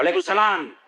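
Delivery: brisk, no-nonsense reply; a clerk answers her boss firmly, keeping it businesslike. Retold or imitated. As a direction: answer the greeting crisply, with no lilt at all. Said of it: "Coba kalau kau tegas".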